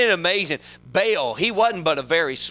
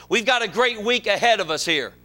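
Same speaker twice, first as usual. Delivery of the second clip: raised, emphatic pulpit delivery; preaching; 6 semitones higher than usual. Real, not acted. Preacher urging his congregation to have faith, preaching.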